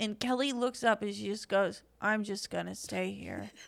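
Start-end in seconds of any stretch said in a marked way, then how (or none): 2.0-3.5 resigned, given-up, low, quiet, defeated voice. Telling a story, the speaker quotes Kelly refusing to get up: imitating Kelly's defeated voice. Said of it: "The amount of defeat voice".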